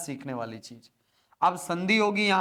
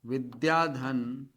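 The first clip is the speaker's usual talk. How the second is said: dictation; 5 semitones lower, 4 dB quieter, much slower than usual. Shown as a demonstration. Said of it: "चलो लिखो question पहला".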